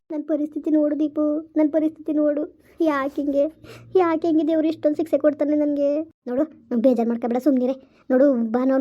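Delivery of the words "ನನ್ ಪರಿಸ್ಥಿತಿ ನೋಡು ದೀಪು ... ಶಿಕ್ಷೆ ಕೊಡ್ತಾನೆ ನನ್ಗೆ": crying as she pleads; tearful lament. Acted. Mother lamenting her fate to her friend, tearful. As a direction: lament through tears. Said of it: "ಅಳ್ಬೇಡ ಸುಮ್ನಿರೆ".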